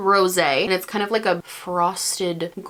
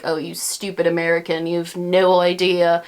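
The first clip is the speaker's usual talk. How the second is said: lightly attempted Australian accent; 2 semitones lower than usual. Non-Americans chiding an American vlogger over shipping, mock Australian accent. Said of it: "That was my Australian accent".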